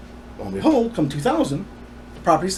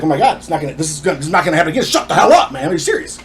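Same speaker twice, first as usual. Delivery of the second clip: hurried disbelief building to an exasperated outburst; retold freak-out; faster than usual. Son recalling his reaction to being accused, retold freak-out. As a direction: replay your own mild panic, rising at the end. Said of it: "I'm freaking out".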